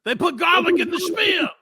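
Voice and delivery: high shouted vampire screech; hissing feral vampire. Acted. Hammy vampire bit, shouted.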